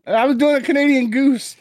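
high, loud, through laughter; laughing protest. Real, not acted. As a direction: defend the bit while laughing. Laughing defense of impression.

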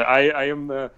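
lightly put-on German accent; mock self-important German accent; German doctor. Imitating German interviewee declaring his rank, mock German accent. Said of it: "representatives from Germany".

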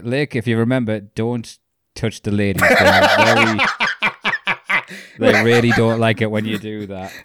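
mock warning broken by laughter; laughing through quote. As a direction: try to stay serious but crack up. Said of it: "the guy's like".

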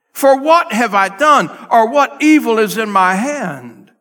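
high, loud, desperate plea; hollering out. Retold or imitated. David hollering at Saul across the gorge, desperate loud plea. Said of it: "David is hollering out".

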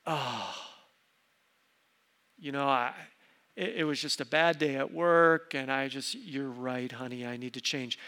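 low, softened admission of fault; sheepish, subdued apology; acted contrition. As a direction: play a husband backing down with a sigh. Acting out the husband's hoped-for response.

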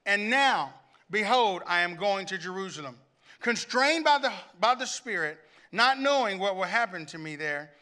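measured, weighty reading with long pauses; lightly dramatized Bible reading; emotional scripture reading. Acted. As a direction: read Paul's farewell as if you feel it. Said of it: "I want you to hear his emotion".

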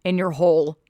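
sarcastic cut-in, "hole" pushed loud; pointed correction. Real, not acted. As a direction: land "hole" in "in your hole" hard as a correction. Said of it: "cut in here and say".

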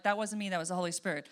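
quick, surprised blurt. Retold or imitated. Pastor catching his own words mid-conversation, a quick surprised blurt. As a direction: rush it out as it leaves your mouth. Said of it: "As it comes out of my mouth".

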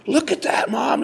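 high-pitched amazed call; excited onlooker. Retold or imitated. Onlookers on the shore call to Mom, excited.

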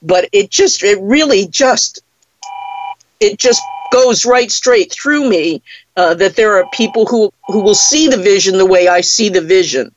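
teary. Real, not acted. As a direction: voice breaking with emotion. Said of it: "Sorry, I'm getting a little teary there".

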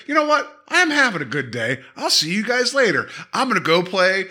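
high, breezy cheerful goodbye; lightly voiced happy-go-lucky man; hammed-up good mood; upbeat. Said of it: "so upbeat".

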